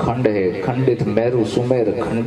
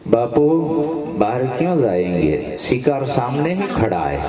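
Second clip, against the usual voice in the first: menacing lion. Acted. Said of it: "ગુરુ હામું લાલ આંખું કરી".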